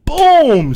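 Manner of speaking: loud, high imitated impact; booming crash sound. Storyteller voicing the car crash, explosive boom. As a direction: belt it out as the collision hits.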